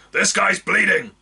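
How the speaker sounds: high, loud gruff urgent call. Acted. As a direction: make the crowd hurry. Orc calls for help.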